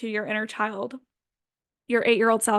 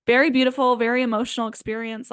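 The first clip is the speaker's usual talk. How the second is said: ordinary talk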